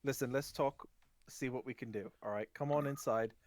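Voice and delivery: haggle, then settle into an invitation; gnome merchant. Acted. Gnome merchant inviting customers inside, lightly put-on voice.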